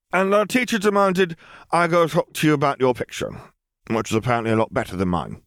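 high, level and unbothered; bored girl voice. A narrator's reading. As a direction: cut in as if nothing matters. Ellie continues.

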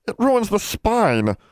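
high, drawn-out wail; wailing elf. A narrator's reading. Elf distressed over a book left face down, wailing. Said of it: "wailed Bran".

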